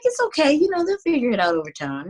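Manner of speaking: high, lilting retold reassurance; reassuring. Artist soothing management about confused fans, lightly reassuring. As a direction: start high and breezy, then settle down.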